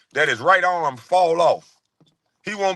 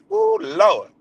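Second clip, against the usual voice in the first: delighted ooh; 12 semitones higher than usual. Real, not acted. Reacting to the song.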